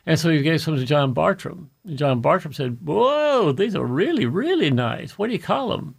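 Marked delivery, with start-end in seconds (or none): 2.8-5.9 an impressed, drawn-out whoa, then easing; mildly wowed, playing the friend; acted admiration. Voicing Bartram admiring the plants.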